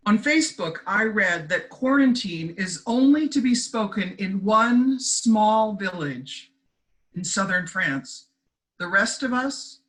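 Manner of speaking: deliberate recital, pausing before the punchline; poetry reading. Acted. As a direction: read it as a short humorous verse. Reads own short poem.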